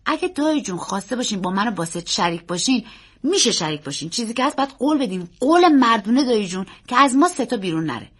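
put-on keen young nephew, emphatic; earnest boy. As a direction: explain the partnership as an eager boy. Boy explains to uncle.

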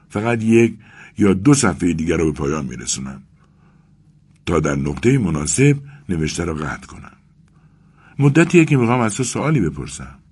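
worn out, gasping between words; panting. Acted. Exhausted Vasya, panting, begs Arkady to stop talking. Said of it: "واسیا نفس زنان گفت".

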